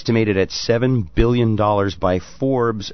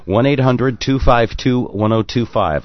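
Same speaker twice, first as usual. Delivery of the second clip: slower, louder digits; slow call-in number read; 2 semitones higher, 5 dB louder than usual. Shown as a demonstration. Host announcing the call-in number to Canadian listeners slowly. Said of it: "Let's take calls from Canada".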